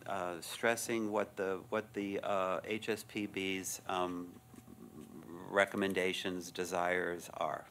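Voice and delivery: breathless after a long statement; out of breath. Real, not acted. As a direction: talk while running short of air. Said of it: "I'm out of breath".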